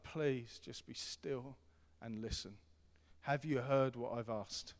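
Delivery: very slow, hushed and patient; soft fatherly appeal; slow tender plea. Retold or imitated. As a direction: draw it out gently like calming a child. Father voiced to kids.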